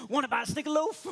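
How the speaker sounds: loud, high-pitched shouted question. Retold or imitated. Jumping in front of a man at the airport, shouting. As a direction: blurt it out at full volume. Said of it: "what did I shout at his face?".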